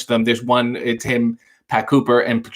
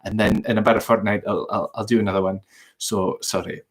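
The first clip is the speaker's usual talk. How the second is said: lightly put-on Scottish accent; joking Scottish accent; 2 semitones lower than usual. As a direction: apologise in a mock Scottish accent. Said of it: "Can you do a Scottish accent?".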